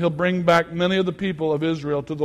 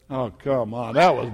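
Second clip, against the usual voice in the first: ordinary talk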